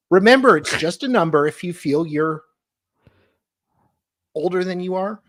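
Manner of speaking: dramatic reading. Acted. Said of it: "dramatic readings of all the text".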